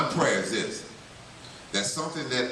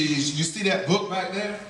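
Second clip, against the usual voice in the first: put-on higher old lady voice, lightly done; a hint of an old woman pointing behind; lightly voiced old lady; 6 semitones higher than usual.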